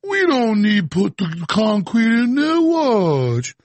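slow, smug know-it-all boss; mock arrogant executive. Mocking BP executives, lightly voiced smug boss. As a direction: sneer as a careless executive. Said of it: "jackass executives at B P".

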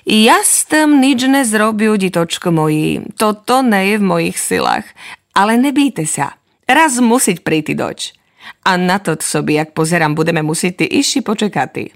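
a mild sigh in mother's voice; gently sigh, lightly voiced mother. Mother sighing to her children. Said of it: "Vzdechla sobi i mamka".

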